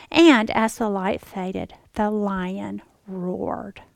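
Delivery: very slow, hushed book reading; dramatic reading. Retold or imitated. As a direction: read the last line for effect. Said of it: "it says".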